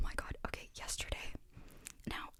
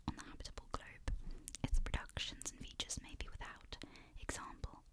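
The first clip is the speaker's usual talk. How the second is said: whispered book reading. Acted. ASMR reader reading Frankenstein's first letter in a whisper. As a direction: read the letter aloud gently, whispering.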